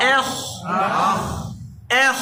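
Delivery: এহ ending in a heavy rasped kha; thin hamza, thick kha. Shown as a demonstration. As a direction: start এহ thin, end on a thick throaty kh. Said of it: "খ মোটা". (এহ, হামজা পাতলা, খ মোটা)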